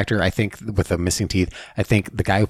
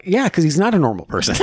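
mock retort; 10 semitones higher than usual. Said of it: "He's like".

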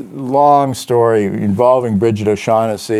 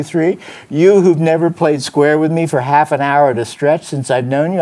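accusing hard-boiled detective; 3 semitones higher than usual. Acted. Reading Spade's accusations.

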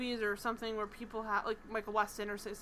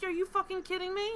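higher, louder mock disbelief; emphatic retold protest; 8 semitones higher, 7 dB louder than usual. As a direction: act out his incredulous reassurance, voice raised. Retold indignant reassurance to apologetic woman.

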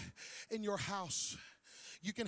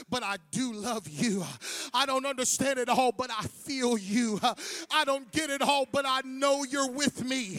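heartfelt prayer; 2 semitones higher, 9 dB louder than usual. Acted. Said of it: "just saying".

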